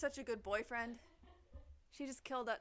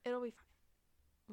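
slow, loud, stretched reassurance; drawn out; 2 semitones higher, 6 dB louder, much slower than usual. Pretend. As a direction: stretch every word out. Repeats louder, drawn out.

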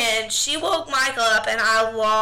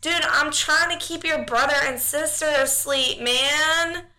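exasperated plea; 4 semitones higher than usual. Retold or imitated. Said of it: "And I was like".

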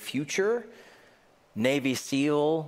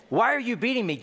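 donkey's plea; 9 semitones higher, faster than usual. Shown as a demonstration. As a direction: cry it out like the wronged donkey.

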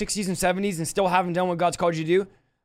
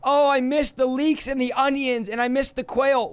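higher, whining nostalgia; whiny Israelites; 5 semitones higher than usual. Retold or imitated. Pastor mocking the children of Israel, high whiny complaint. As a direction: whine about Egypt like a spoiled crowd. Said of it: "This is what the children of Israel".

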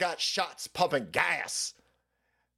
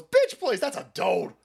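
hammed-up catty Joan Rivers; sassy Joan Rivers. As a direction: brush it off like a catty diva. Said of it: "Joan Rivers goes".

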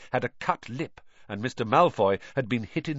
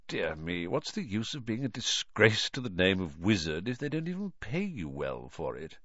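soft contempt; 5 dB quieter than usual. Acted. Lucius insults Arthur quietly.

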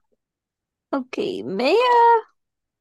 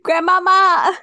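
excited; 6 semitones higher, 7 dB louder than usual. Real, not acted. Delighted exclamation.

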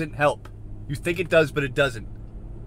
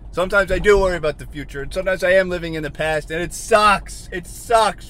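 frustrated, raised-voice venting; worked-up ranting; 3 semitones higher, 5 dB louder than usual. Real, not acted. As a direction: build to a high, loud complaint. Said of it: "I'm sorry for screaming".

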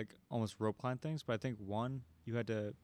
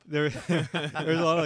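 words spill out through a laugh; louder, laughing as he talks; 5 semitones higher, 10 dB louder than usual. Real, not acted. Laughing while telling the story.

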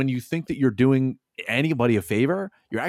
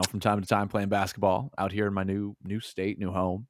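talking with a broken nose; broken nose, blocked sound; 4 semitones lower, 6 dB quieter than usual. Real, not acted. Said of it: "We have broken our nose".

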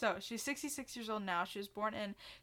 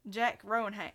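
failed Australian accent; 6 dB louder than usual. Shown as a demonstration. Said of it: "not Australian".

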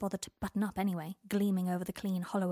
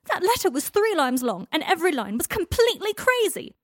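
high, loud bawl; 9 semitones higher, 11 dB louder than usual. Acted. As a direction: bawl it at him. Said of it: "Draco bawled".

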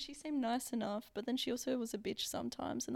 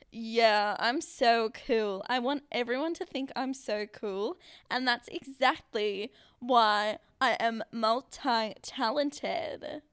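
loud, slow, exaggerated American; American accent; 8 dB louder, slower than usual. Guest mocking own wish to seem cool, American accent. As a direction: brag in a hammed-up American accent. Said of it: "really bad at American accents".

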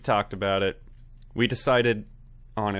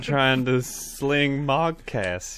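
Southern gentleman; 4 semitones higher, 6 dB louder, slower than usual. Acted. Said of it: "Southern gentlemen".

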